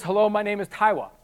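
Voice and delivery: "Taiwa" with a w for the r; imitating "Taiwa", r said as w; says w for r. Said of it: "I can't pronounce my R's".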